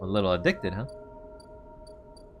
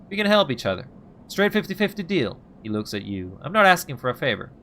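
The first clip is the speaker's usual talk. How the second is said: higher, pressing partner pitch; urgent bargaining Ethan; 5 semitones higher, 3 dB louder than usual. Acted. Ethan pushing the player into a deal, higher and pressing. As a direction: push hard for the deal.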